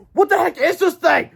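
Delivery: very high, loud puzzled cry; cried. Acted. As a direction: exclaim in bafflement. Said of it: "cried yesterday, Harold".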